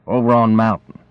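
put-on drunken wet gurgle; slurred gurgling drunk. A narrator's reading. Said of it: "Jack gurgled".

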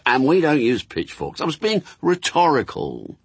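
high, insistent bickering; arguing. Acted. Demon and angel bicker over harps, insistent.

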